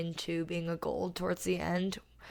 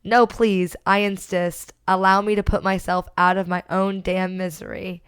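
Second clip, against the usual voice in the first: mock outraged review; 7 dB louder than usual. Host reads a furious reviewer's rant, loud mock melodrama. Reading a nasty one-star review aloud.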